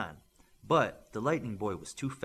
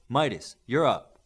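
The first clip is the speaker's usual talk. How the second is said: coach calling; 8 dB louder than usual. A narrator's reading. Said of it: "Smith said".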